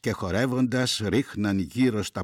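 measured verse reading with weighted pauses; poem recitation. Acted. Reader reciting Greek verse to listeners, measured poem recitation. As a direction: recite line by line, letting each phrase settle.

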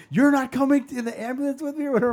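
loud, high, fast mock Filipino-accented protest. Mom to her kid before the ambulance, indignant Filipino accent. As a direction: imitate an outraged mom's Filipino accent. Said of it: "in her crazy Filipino accent".

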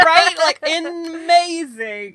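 high, slow sob-laugh; laugh-crying. Real, not acted. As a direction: overcome with laughter. Overwhelmed by the lucky roll.

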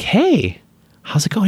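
high casual hello to a fan; casual greeting. Retold or imitated. Retelling greeting a young fan.

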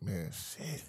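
very soft, low muttered reaction; retold dismay. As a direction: let it sink out under your breath. Retelling his reluctant reaction to advice.

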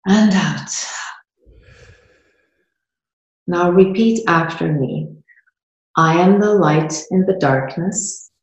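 measured lines with long pauses, left open for repeating; guided meditation. Real, not acted. Host guided through a micro meditation to feel it, guided meditation. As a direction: lead them through it step by step. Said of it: "to do a micro meditation".

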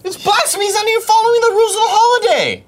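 high, fast mock outrage; hammed-up indignant rant.

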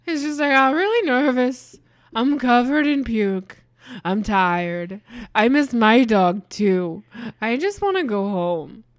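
a hint of a miserable young soldier; pukey drummer boy. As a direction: plead like a sick, homesick kid. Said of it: "he goes".

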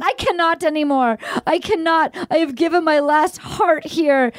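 mock tearful. Sobbing plea retold.

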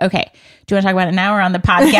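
very fast mock host line; rattled-off host question. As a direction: gabble it like an eager host. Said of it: "without being like".

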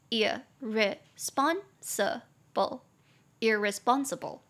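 irresponsible said slowly, weight on spon; stress on spon. Shown as a demonstration. Teacher drilling irresponsible with stress on spon. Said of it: "重音节在第三音节".

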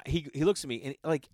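normal talking voice

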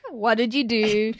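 asked through a laugh; laughing as she asks. Real, not acted. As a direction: giggly prompt. Laughing question to guest.

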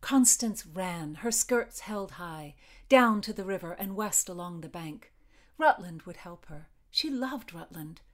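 measured, deliberate storytelling with pauses; story narration. A narrator's reading. Podcast host reads her Tudor novel chapter, measured story narration. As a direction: read it out as a dramatic tale.

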